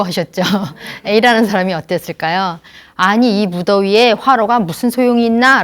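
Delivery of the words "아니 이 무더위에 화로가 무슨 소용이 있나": loud, indignant scolding of a foolish gift; scolding roar. Retold or imitated. An elder scolding the gift-giver, loud and angry. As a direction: bellow at him in outrage. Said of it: "호통을 치셨대요".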